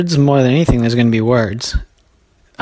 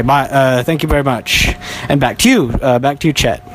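mock field reporter; 3 semitones higher than usual. Reporting out in the field as the hurricane comes, hammed-up news reporter voice. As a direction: play a storm reporter braving the rain.

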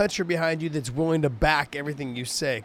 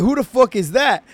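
mock British trash talk; 5 semitones higher, 6 dB louder than usual. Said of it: "the way that they trash talk".

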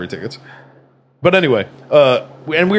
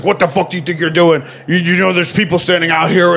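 higher-pitched, outraged scolding; angry officer; 4 semitones higher than usual. Retold or imitated. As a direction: imitate a cop chewing out a driver. Retold officer scolding a driver.

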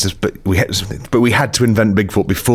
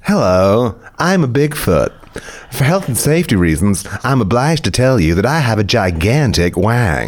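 bigfoot voice. Acted. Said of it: "Bigfoot's voice".

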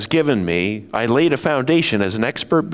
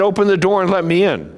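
high loud big bad wolf; 7 semitones higher, 4 dB louder, faster than usual. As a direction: demand it like the wolf. Wolf voiced in story.

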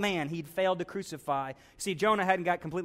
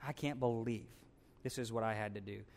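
low, much softer bitter grumble; bitter muttering; 8 semitones lower, 10 dB quieter than usual. Acted. Jonah sulking alone under his hut, muttered much softer. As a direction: stew under your breath, resentful.

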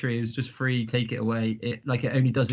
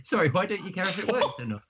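retold disbelief; 6 semitones higher than usual. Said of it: "I said".

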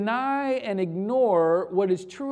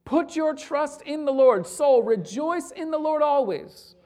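rally your own soul with fervour; rising preacher's call to rejoice; preaching to the soul; 6 semitones higher than usual. Pretend. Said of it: "you say to your soul".

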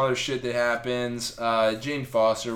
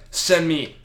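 mock Thor demand; 3 semitones higher, 7 dB louder, slower than usual. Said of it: "He's like".

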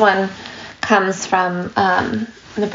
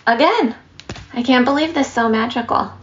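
higher, breathless marveling neighbor; mock gushing; 6 semitones higher than usual. Neighbor over the fence raving that the son was spared, excited gush. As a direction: marvel like the nosy neighbor again.

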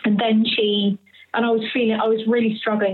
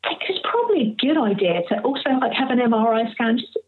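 mild imitation of a kind clinician; lovely and kind; 3 semitones higher, faster than usual. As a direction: gently suggest it, imitating a kind doctor. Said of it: "she was so lovely and kind".

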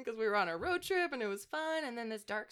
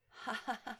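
mock laugh; 3 semitones higher, 4 dB quieter than usual. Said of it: "what we're looking to get".

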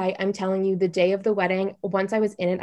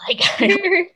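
laughing; 12 semitones higher, 5 dB louder than usual. Real, not acted. Laughs at own disaster.

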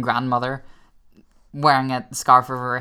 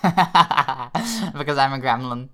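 laughing; much slower than usual. Real, not acted. Laughing answer to a joke.

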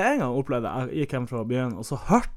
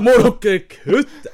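slow, higher and louder through laughter; laughing the words out; cracking up mid-question; 10 semitones higher, 8 dB louder, much slower than usual. Real, not acted.

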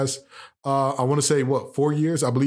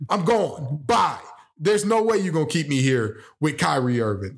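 higher, excited rant; imitating Luka; 4 semitones higher than usual. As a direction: play a fed-up star leaving. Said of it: "I'm looking at the front office saying".

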